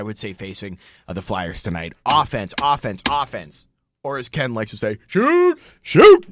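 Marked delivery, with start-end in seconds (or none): 5.1-6.3 high, loud yell at the TV. Retold or imitated. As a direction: yell it at the screen. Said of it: "He always just yells that".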